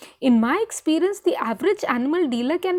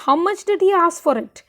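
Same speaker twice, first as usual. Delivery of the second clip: stern demand; 5 semitones higher, 3 dB louder than usual. Retold or imitated. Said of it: "She's asking her husband".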